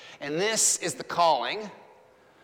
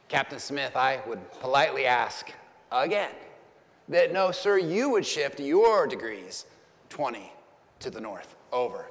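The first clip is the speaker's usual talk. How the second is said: confident; 4 semitones lower than usual. Retold or imitated. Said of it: "just as confident as the first time".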